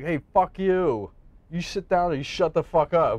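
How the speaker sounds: put-on in-your-face confrontational tone. Retelling a story, acting out one man getting up in another's face: acting out an in-your-face confrontation. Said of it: "gets up in his face".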